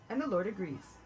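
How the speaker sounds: ordinary delivery, nothing marked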